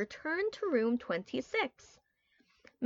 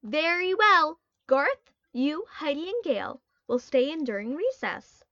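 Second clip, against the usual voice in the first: louder, higher, stern and firm; firm teacher voice; 4 semitones higher, 3 dB louder than usual. Acted. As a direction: lay down the law firmly. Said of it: "the teacher said firmly".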